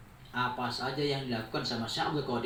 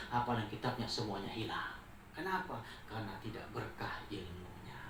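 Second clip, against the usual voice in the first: solemn; 4 semitones lower, 5 dB quieter than usual. Acted. Sheikh solemnly pronounces the consequence.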